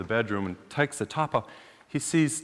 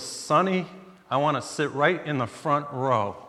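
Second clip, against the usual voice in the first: put-on elderly woman; 3 semitones higher than usual. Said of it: "she was elderly".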